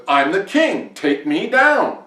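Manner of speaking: high, loud royal demand; indignant king. A narrator's reading. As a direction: shout your rank and order, stretching the end. King demands swans obey.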